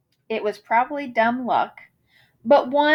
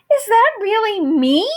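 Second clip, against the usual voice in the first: higher, delighted question; gushing; 7 semitones higher, 4 dB louder than usual. Acted. Moose gazing in the mirror, gushing with delight. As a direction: marvel at your own reflection. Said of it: "Moose gushed".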